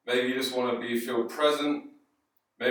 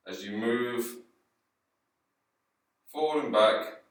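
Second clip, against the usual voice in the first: calm, unhurried guiding voice with long pauses; guided yoga; 2 semitones lower than usual. Acted. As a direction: gently lead the class through the movement, leaving space between phrases. Guides slow yoga rocking.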